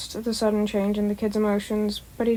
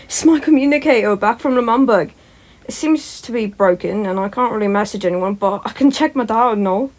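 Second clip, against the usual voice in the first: louder, eager explaining; excited kid; 6 dB louder than usual. Acted. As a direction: rush to show off your gadget. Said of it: "Tommy said".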